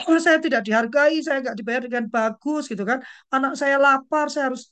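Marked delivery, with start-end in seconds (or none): 0.1-2.7 a mock complaint that starts loud and high, then settles back; half-hammed protest yell. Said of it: "Kalau gitu jangan teriak". 3.3-4.7 loud, high mock protest; hammed-up shouted grievance; mock yell. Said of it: "jangan teriak gitu kan".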